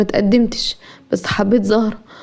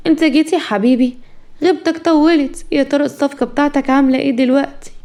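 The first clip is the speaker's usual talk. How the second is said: mildly cool, unbothered wife; understated icy sweetness; feigned coolness; 3 semitones higher than usual. Acted. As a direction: greet him with studied indifference. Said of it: "وفاء ببرود".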